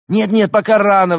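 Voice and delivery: high, loud alarmed protest; hasty objection. A narrator's reading. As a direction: stop them in a panic. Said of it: "возразил второй".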